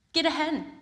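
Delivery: put-on wise old sage. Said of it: "said the wise man".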